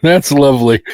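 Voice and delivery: wheezing breath under the words; wheezy, whistling breath. Real, not acted. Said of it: "I'm wheezing like an old man".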